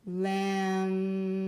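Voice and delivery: Lemon said slowly as LEM, short pause, then ON; Lemon, two separate beats, LEM then ON; split into syllables. Shown as a demonstration. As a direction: break the word Lemon cleanly after the M. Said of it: "You can hear that the word breaks after the M".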